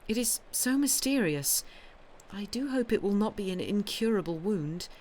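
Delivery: lightly voiced anxious farmer's wife; anxious young wife. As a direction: plead gently, troubled and curious.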